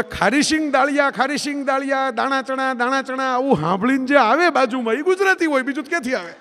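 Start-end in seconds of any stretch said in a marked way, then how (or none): 0.0-3.3 hawker's call. Retold or imitated. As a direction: bellow it like a fair snack seller. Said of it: "જોર જોરથી બૂમ પાડતો હતો".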